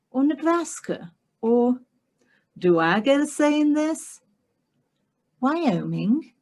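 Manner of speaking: put-on proper young lady, rising as she rattles off guesses; quick, clipped guesses climbing in pitch; prim English heroine.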